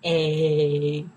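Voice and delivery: long, drawn-out cool greeting; Fonzie. Retold or imitated. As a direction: stretch it out like a sitcom catchphrase. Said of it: "go in front of the mirror and just go".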